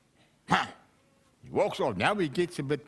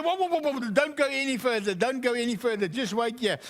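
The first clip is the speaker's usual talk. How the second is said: urgent stop; 6 semitones higher, faster than usual. Acted. Buyer urgently stops price rising.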